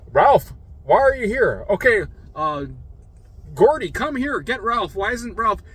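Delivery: loud, high imitation of confused calling; delirious old man. Hallucinating old patient calling for family, delirious. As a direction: call out urgently to people who aren't there. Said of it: "he started going delirious".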